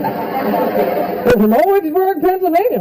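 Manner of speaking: slow, high, proud mock brag; proud bragging. Birthday group bragging about their hometown, slow proud mock brag. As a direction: show off the hometown name slowly. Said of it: "they're, like, bragging about it".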